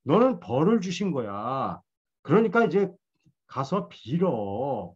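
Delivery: lightly voiced friend berating Job, somewhat high. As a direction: press hard like a scolding friend, mildly acted. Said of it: "몰아치는 거예요".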